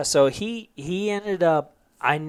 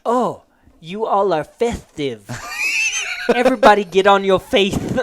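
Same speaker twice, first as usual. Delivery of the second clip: lisping sergeant voice; 5 semitones higher, 3 dB louder than usual. Retold or imitated. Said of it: "He goes".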